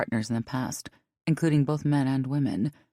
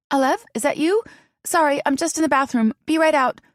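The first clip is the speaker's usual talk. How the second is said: calling out; 12 semitones higher, 6 dB louder than usual. Acted. Calling through bathroom door.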